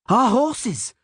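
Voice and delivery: high, urgent call; Milva's yell. A narrator's reading. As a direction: yell it over a panicking crowd. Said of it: "Milva yelled".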